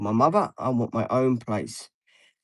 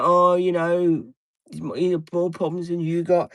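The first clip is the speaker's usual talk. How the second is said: mocking mother; 6 semitones higher than usual. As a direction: drag it out like a dismissive mother. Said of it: "my mother's always trying to compare me".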